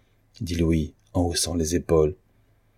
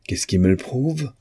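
exclaimed retort; 6 semitones higher than usual. A narrator's reading. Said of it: "S'écria Louis".

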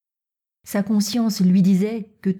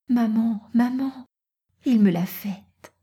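put-on higher-pitched girl calling her mother; lightly voiced girl, breaking big news in a raised pitch; excited young daughter; 5 semitones higher than usual. A narrator's reading.

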